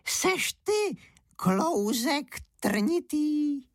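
put-on high, slow old granny voice; old woman. Old woman mushroom-picking talks to a mushroom, high and slow.

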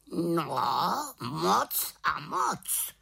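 high, slow emphatic raven; raven exclaiming. Acted. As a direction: exclaim it strongly. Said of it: "zvolal Havran". (havran zvolá)

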